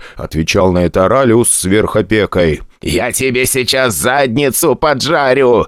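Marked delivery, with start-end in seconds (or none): 2.8-5.7 slow, adorably tiny menace; threaten, but sound cute. A narrator's reading. Tiny Cerberus threatens the incubus, cute mock menace. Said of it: "умильно угрожал микроцербер".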